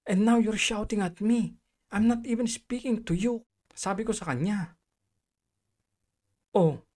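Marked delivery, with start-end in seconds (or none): 0.1-3.5 higher, indignant retort; moderately heated comeback; retold shouting back. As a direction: protest at being shouted at, voice raised. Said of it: "Sinigawan ko na din".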